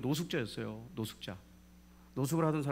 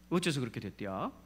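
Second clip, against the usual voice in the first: Jeolla dialect. Retold or imitated. Preacher asks how it turned out that way, in Jeolla dialect. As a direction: question with a rising Jeolla lilt. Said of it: "전라도 사투리로 물어봤죠".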